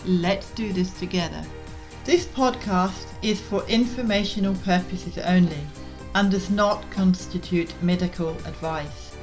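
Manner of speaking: measured, clearly articulated scripted read; podcast intro read. Real, not acted. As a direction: read the show's intro in even, deliberate phrases. Recorded podcast intro and disclaimer.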